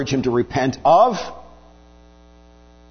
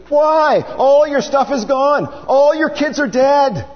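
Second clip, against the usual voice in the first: rising exasperation, pushing him to give up; exasperated rebuke; 5 semitones higher than usual. Retold or imitated. Preacher voicing Job's wife scolding Job, exasperated and building.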